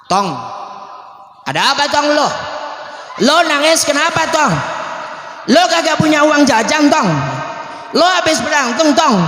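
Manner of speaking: lively Betawi street talk; Betawi speech. Acted. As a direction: ask like a concerned Betawi elder. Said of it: "Kalau bahasa Betawi apa sih?".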